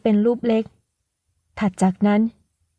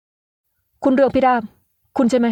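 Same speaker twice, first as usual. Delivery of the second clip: a touch higher, drawn-out name in disbelief; startled recognition; 3 semitones higher, much slower than usual. Acted. Young man recognising the woman who fooled him, startled. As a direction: realise who she is.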